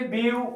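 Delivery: ब्यूटीफुल broken into three separate beats; syllable by syllable. Shown as a demonstration. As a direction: say ब्यूटीफुल in three parts with long gaps. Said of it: "ब्यूटीफुल तीन बार चढ़ गया".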